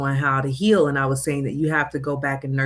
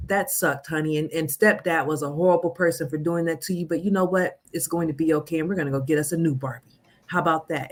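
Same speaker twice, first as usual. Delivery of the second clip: put-on comforting a child. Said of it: "say to that little eight-year-old".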